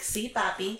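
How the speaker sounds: sarcastic. Retold or imitated. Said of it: "like, sarcastic".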